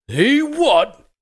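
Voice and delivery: high, loud incredulous outburst; outraged disbelief. Acted. Morgrig hears the killer escaped, loud outraged cry. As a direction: explode in angry disbelief.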